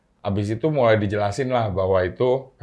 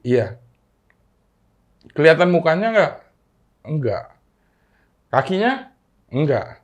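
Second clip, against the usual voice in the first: mother's questions; 5 semitones higher, 6 dB louder than usual. Retold or imitated. Mother questions child about ghost.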